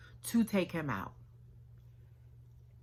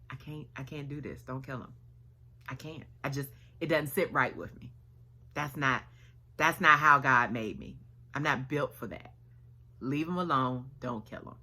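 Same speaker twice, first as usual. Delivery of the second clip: much softer, hushed and conflicted; softly pleading don't kill him; torn refusal; 5 semitones lower, 7 dB quieter, faster than usual. Retold or imitated. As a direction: pull back, quietly can't do it.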